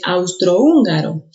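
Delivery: austrohúngaro slowly, aus-tro-ÚN-ga-ro; slow down and hit the ú of austrohúngaro; austrohúngaro with o and ú kept apart; stress on the ú. Shown as a demonstration. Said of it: "que es lo mismo".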